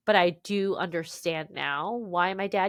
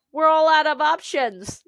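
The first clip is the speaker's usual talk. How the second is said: higher, louder exasperated family voice; imitating family voice; 7 semitones higher, 9 dB louder than usual. Relatives giving up on her, loud and high. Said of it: "my dad's voice and my aunt's voice".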